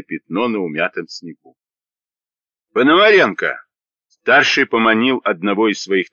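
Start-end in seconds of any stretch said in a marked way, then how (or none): 2.7-3.6 raised call across the crowd. A narrator's reading. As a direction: shout the name to a comrade. Soldier calls comrade.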